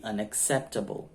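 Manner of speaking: "unacceptable" stressed on "cep"; early English stress. Shown as a demonstration. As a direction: lean on "cep" in "unacceptable", weak "able". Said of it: "ela vem antes".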